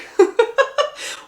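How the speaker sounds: high burst of laughter; incredulous cackle; disbelieving laugh. Real, not acted. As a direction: laugh out loud at the absurdity. Laughs at the logic.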